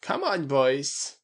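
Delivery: slow, drawn-out call to the group; lightly voiced man urging his companions on; rallying call. A narrator's reading. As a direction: round up the boys. Character rallies his companions.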